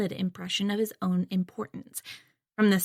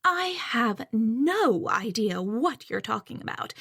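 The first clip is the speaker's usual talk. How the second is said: haughty; slower than usual. Acted. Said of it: "she replies haughtily".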